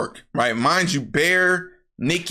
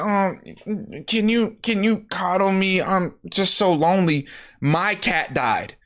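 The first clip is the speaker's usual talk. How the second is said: higher-pitched pleading for comfort; needy mood change; 5 semitones higher than usual. Retold or imitated. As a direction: act out a needy, lonely plea. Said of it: "the whole mood changes".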